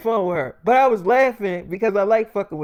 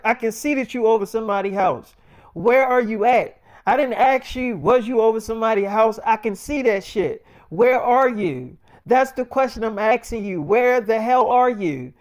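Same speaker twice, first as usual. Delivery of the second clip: mock angry girlfriend; 4 semitones higher, 3 dB louder than usual. Zendaya interrogating him angrily.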